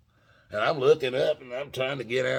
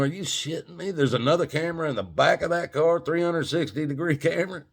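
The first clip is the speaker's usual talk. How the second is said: higher-pitched, incredulous questioning; astonished storyteller quoting himself; retold disbelief; 6 semitones higher, faster than usual. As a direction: replay your disbelief, pitched up. Retells own disbelief at second camera.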